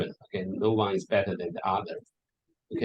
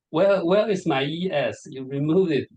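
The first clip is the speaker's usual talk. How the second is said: retold indignant question, pitched up and a bit louder; shocked protest; 4 semitones higher, 3 dB louder than usual. Shocked professor asking organizers about his missing title, mildly indignant. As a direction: ask it in mild mock shock.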